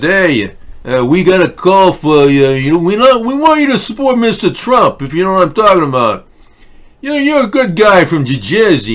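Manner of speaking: high, loud hammed-up mobster voice leaning on Jeff; shady caller. Caller pressuring Jeff Van Drew to switch parties, hammed-up mobster voice. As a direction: play a pushy wiseguy making an offer.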